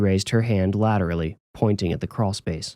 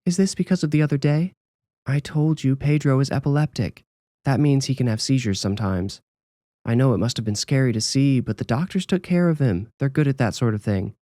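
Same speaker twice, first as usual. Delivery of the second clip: comforting mother; 5 semitones higher than usual. Acted. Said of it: "addressing her child with a comforting gaze".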